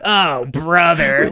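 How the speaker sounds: slow, drawn-out exasperation; mock fed-up sigh; exasperated. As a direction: groan it out slowly like you're fed up.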